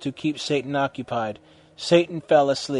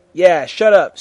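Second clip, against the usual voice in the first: preppy; 3 semitones higher, 8 dB louder than usual. A narrator's reading. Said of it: "Snake said preppily".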